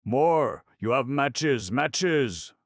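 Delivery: high, loud desperate shouting; panicked shout. Acted. Sitter to Deacon in the dark, a panicked shout. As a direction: demand the matches in panic.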